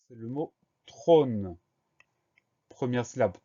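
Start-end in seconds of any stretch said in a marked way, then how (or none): 0.8-1.6 drawn out. Shown as a demonstration. Teacher sounds out new word.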